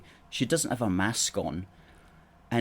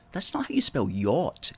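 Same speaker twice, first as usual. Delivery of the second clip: usual speaking voice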